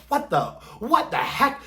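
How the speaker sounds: high-pitched, bewildered exclamation; mock startled. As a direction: act out a squeaky double-take. Carrie startled by the alarm.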